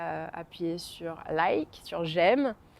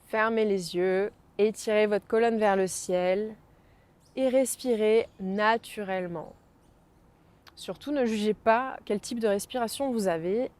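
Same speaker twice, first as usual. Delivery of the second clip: guided meditation. Acted. Guides breathing exercise. (voix de méditation guidée)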